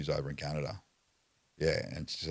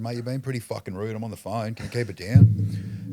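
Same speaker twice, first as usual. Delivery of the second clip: mock polite taunt; 6 semitones higher, 9 dB louder than usual. Taunting cop during arrest.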